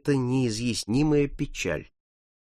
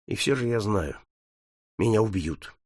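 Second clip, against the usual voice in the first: lower, softer, despondent; dejected; 4 semitones lower, 6 dB quieter than usual. Acted. Paul answering his friend, dejected. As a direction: say it as a settled, hopeless fact. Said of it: "уныло ответил мальчик".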